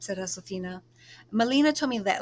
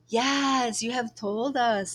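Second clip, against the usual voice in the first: put-on lightly teasing older cousin, higher and louder; 4 semitones higher, 4 dB louder, much slower than usual. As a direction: poke fun at her gently. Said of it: "teasing her".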